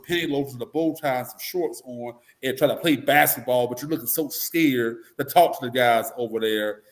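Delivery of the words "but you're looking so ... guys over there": normal talking voice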